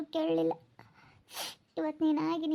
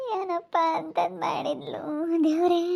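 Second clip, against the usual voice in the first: slow words broken by sobs; weeping. Real, not acted. Mourner asks what the girl had done, sobbing slowly. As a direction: cry through each word. Mourner weeps over the dead.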